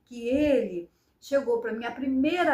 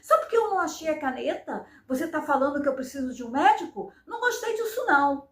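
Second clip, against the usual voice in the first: with attitude; faster than usual. Retold or imitated. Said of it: "Eu falei com atitude".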